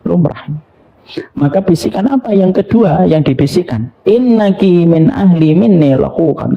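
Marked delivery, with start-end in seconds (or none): 4.1-6.5 slow, raised recitation of the words; slow solemn Arabic prophecy; solemn Arabic quote. Retold or imitated. Prophet's second whisper quoted.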